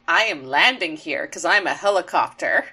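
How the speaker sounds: low, deadpan announcing voice; mock literal-minded toy voice; Jolt. Jolt announcing his landing on the base, low deadpan. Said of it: "Jolt specifically is like".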